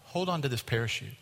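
softened, confidential stewardess line; retold whisper. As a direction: lean in and quietly warn, voice still audible. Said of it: "whispers in your ear".

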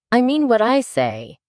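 high-pitched, offended retort; storyteller's lightly acted huff. A narrator's reading. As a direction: insist as if slighted. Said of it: "replied in an offended tone".

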